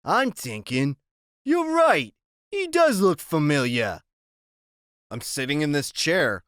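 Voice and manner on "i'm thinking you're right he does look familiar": loud, higher mocking tough guy; taunting gang boss; menacing biker. Iggy considering.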